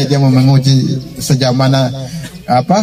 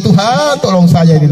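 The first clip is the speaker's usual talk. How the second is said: high wailed opening, falling away; mock crying plea; 4 semitones higher than usual. Sick person begging God, mock weeping. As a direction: imitate a tearful cry for help. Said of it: "Kalau lagi sakit nangis dia".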